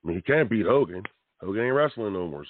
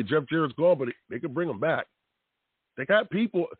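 normal talking voice

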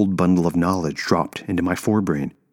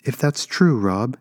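higher-pitched, mildly gentle reply; almost gentle; 7 semitones higher than usual. A narrator's reading. Woman reasoning with her bound ex, almost gently. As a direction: answer him almost tenderly, voice lifted. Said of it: "she said, almost gently".

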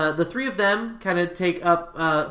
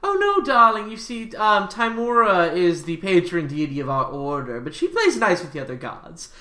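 lightly voiced priest, soothing the party; a hint of a fond priest saying darling; gently reassuring the nervous travelers; doting priest; 4 semitones higher than usual.

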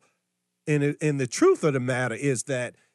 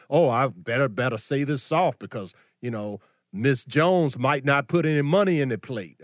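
lower, softer timid mock preacher; 4 semitones lower than usual. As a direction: play a meek preacher afraid of losing money. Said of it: "he didn't say it with sweetness and kindness and softness".

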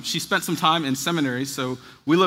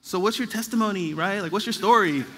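awkward probing; 3 semitones higher than usual. Retold or imitated. Dinner guest trying to go deeper with professor, mock awkward. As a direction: lightly imitate an awkward attempt to go deeper. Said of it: "when we're awkwardly trying to go a little deeper".

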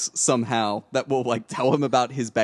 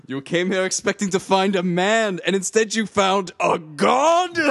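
a lightly voiced grand villain, laughing through it; M. Bison impression; 4 semitones higher than usual. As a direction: quote the villain with laughing bravado. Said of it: "Raul Julia ... M. Bison".

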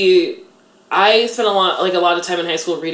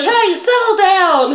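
much higher, slow, louder "Hey, settle down!"; hammed-up teacher telling students off; mock teacher scolding; 5 dB louder, slower than usual. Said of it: "she was like".

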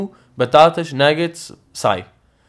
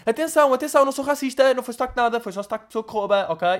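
raised mock defense; 10 semitones higher, faster than usual. Real, not acted.

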